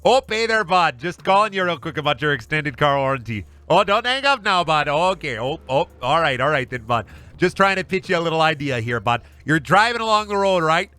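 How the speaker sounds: put-on high, chirpy Minnesota accent, every line ending in bud; overly nice Minnesota telemarketer with a Minnesota accent. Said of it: "sound like you're from Minnesota".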